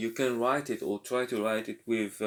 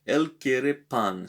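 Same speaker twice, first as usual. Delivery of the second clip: 1 slow model sentence; 3 semitones higher, 4 dB louder, slower than usual. Shown as a demonstration. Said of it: "teacher repeats sentence for students".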